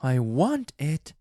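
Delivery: ordinary delivery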